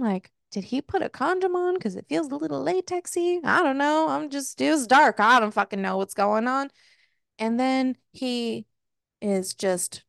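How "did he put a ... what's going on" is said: confused inner monologue. Retold or imitated. Woman puzzling over what happened in the dark, confused.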